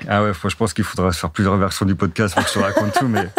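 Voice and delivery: amused, chuckling through the words; laughing while talking. Real, not acted. Guest answering the host's big question, laughing.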